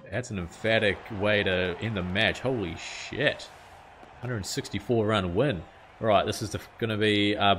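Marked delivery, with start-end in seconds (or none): 2.4-3.5 "Holy shit." stretched out slow at normal pitch; slow amazed repeat. Real, not acted. Gamer replaying the wicket in his head, slow drawn-out.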